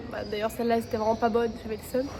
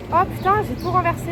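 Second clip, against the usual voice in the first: startled curse; 6 semitones higher, 5 dB louder than usual. Real, not acted. Spills her food.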